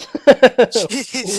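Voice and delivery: loud drawn-out jeez; loud exclamation. Real, not acted. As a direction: blurt it out loud. Loud reaction.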